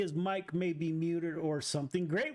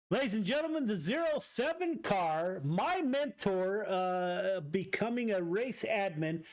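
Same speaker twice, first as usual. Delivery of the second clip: announcer; 3 semitones higher than usual. Acted. Announces race result.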